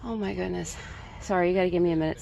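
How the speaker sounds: breathless, catching her breath; panting between words. Real, not acted. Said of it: "Say I'm out of breath".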